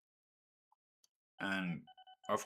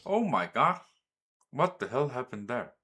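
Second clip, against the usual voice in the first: shocked; 3 semitones higher, 5 dB louder than usual. Real, not acted. Train takes wrong route.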